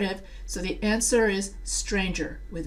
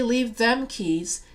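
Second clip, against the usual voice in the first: Southern accent; slower than usual. Shown as a demonstration. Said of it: "the reason why I did the Southern accent".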